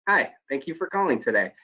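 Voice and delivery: brighter, smiling call-center hello; friendly phone greeting with a smile. Shown as a demonstration. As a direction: let them hear the smile. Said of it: "big difference in the two statements".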